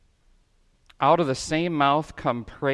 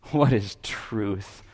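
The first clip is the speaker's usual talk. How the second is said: Pilate's retort; 5 semitones lower, 5 dB quieter, slower than usual. A narrator's reading. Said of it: "retorted Pilate".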